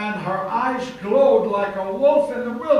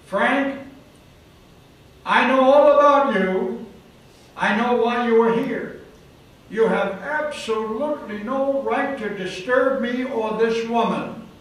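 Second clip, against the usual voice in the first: lightly voiced possessing demon, menacing then settling; 2 semitones higher, 5 dB louder than usual. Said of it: "A deep, guttural, masculine voice".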